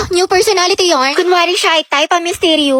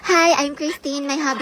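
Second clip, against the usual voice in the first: acting cool; 8 dB quieter than usual. Student introducing herself to class, acting cool. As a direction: introduce yourself quietly, too cool for class. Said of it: "feeling cool".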